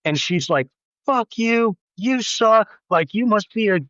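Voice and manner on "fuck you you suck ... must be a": retold angry outburst. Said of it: "all this stuff, right, just goes off".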